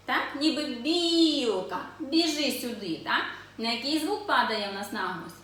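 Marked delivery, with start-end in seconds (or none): 0.6-3.0 lightly sung-out call. Shown as a demonstration. Teacher pretending to call the squirrel over, calling tone. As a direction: beckon the squirrel over, first vowel stretched. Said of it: "Це коли ми покличемо білку".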